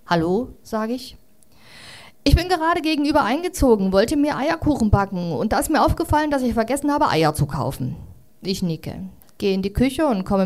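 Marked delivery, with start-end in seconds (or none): 2.2-8.0 lightly higher, cheeky kangaroo; a hint of a pushy new neighbour. Kangaroo asks the new neighbour for eggs, lightly higher.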